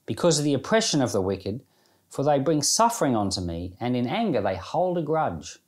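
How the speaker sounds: solemn psalm reading; scripture reading. Acted. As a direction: read the lament with gravity, letting it rise and fall. Reads psalm aloud.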